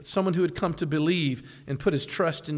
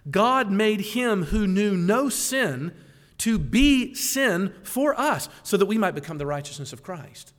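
slow solemn reading; 2 semitones higher, 4 dB louder, slower than usual. Shown as a demonstration. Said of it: "Did you hear that?".

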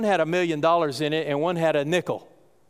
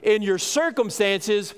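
slow emphatic preaching; 3 semitones higher, much slower than usual. Acted. Preacher drawing out joy.

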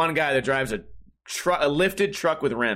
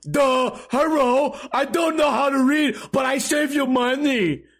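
high, loud, slow dim-witted voice; dopey mock salesman; 10 semitones higher, 4 dB louder than usual. Mocking the salesmen who can't read, slow and dopey. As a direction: play a dumb oaf bragging slowly.

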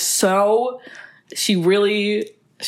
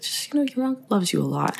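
softer voice, gently reassuring; soft-spoken, calm dad; 5 dB quieter than usual. Retold or imitated. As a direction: quote a quiet father comforting his kid. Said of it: "soft-spoken, very calm guy".

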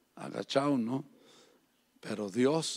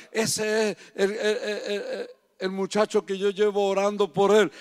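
voice breaking; 6 semitones higher, 8 dB louder than usual. Acted. Woman's words, voice breaking.

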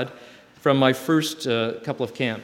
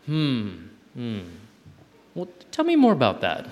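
puzzled teacher. Retold or imitated. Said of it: "I'm like".

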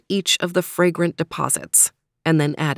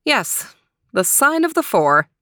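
higher-pitched resigned sigh; a mild sigh of resignation, pitched up; 7 semitones higher than usual. A narrator's reading. Anna confirms the mess to Ambrose, sighing. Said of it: "sighed Anna".

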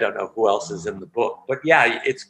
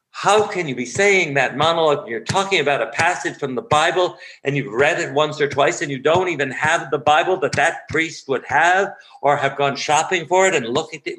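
mock fierce critique; 5 semitones higher than usual. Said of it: "coming at you with a hatchet".

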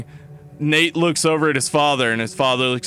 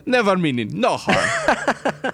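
put-on slow, higher Southern accent, laughing; wobbly comic Southern singsong; mock Southern accent; 5 semitones higher, slower than usual. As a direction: drawl it in a hammed-up Southern accent. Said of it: "Our accents are way all over the place".

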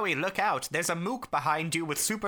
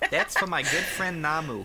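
laughing. Real, not acted.

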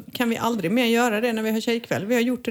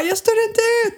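higher, louder mock wail; retold scream; 12 semitones higher, 4 dB louder, faster than usual. Itching from face mask, she cries out in mock wail. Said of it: "Och jag skrek".

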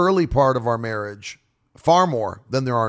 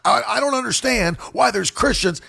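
high-pitched, animated exasperation; demonstrative preaching; 8 semitones higher than usual. Acted. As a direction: act out an impassioned, hand-waving rant. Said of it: "if you're talking with your hands".

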